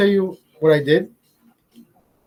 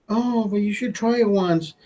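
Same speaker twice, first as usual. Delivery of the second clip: coaxing; 5 semitones higher, slower than usual. Retold or imitated. Gay man coaxing him.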